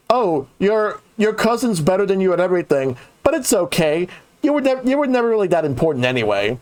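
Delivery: condescending relative. Retold or imitated. Relative comforting the lesser cousin, mock condescending. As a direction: imitate patronizing consolation, starting high and easing down. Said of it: "like that condescending relative".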